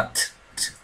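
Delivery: a voiceless whispered "T, t." with only a puff of air; mute t. Shown as a demonstration. Teacher demonstrating the silent T ending, whispered puff. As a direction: breathe out "T, t." with no voice at all. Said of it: "um T mudo".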